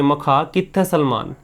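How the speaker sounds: मखा कित्थे Salman slow, with a light Punjabi lilt; drawn-out Punjabi-flavoured कित्थे, the right take; a touch of Punjabi accent, slow. Shown as a demonstration. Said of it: "ऐसे बोलेंगे".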